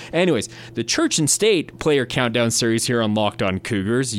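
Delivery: light news anchor read. Pretend. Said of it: "using my best, uh, news anchor voice".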